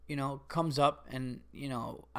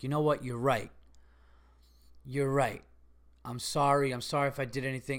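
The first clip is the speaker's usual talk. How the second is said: retold calming apology, slightly lowered voice; 2 semitones lower, 3 dB quieter than usual. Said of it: "just calm him down".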